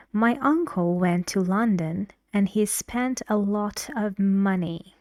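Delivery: a teacher's demo stressing the key words; stressed model sentence. Shown as a demonstration. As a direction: hit uncle, London and money clearly. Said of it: "In this sentence, uncle, a, London".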